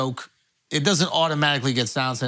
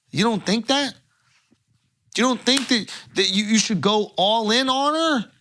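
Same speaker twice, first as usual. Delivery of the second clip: hyped sponsor ad read. Acted. Host hyping the sponsor to his co-hosts, pitchman ad read. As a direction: sell it like a late-night hype man.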